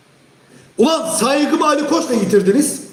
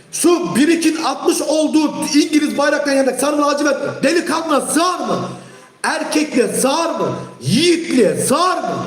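angry rebuke; 4 semitones higher than usual. Real, not acted. Streamer scolding a fan over English flags, angry shout. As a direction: shame him with each word.

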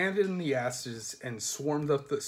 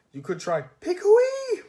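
high, loud cry; high shout; shouted suggestion; 7 dB louder, slower than usual. Acted. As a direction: yell it up to the sled. Sacks call out suggestion.

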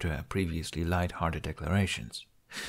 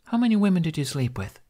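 demanding; 8 semitones higher, 3 dB louder than usual. A narrator's reading. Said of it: "she demanded".

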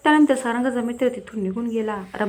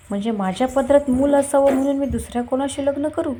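higher, louder incredulous question; indignant disbelief; 4 semitones higher, 5 dB louder than usual. Acted. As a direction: throw his demand back at him, raised and louder. Wife reacts to husband's remarriage demand. (अविश्वासाने, चढ्या आवाजात)

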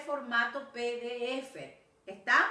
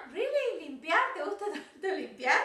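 surprised; 5 semitones higher than usual. Real, not acted. Teacher surprised at student.

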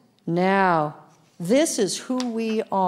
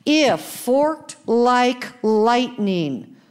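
higher, slow preached proclamation; rising preacher's emphasis; preaching emphasis; 4 semitones higher, 3 dB louder, much slower than usual. Acted. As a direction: proclaim it slowly with fire. Preaching the verse again.

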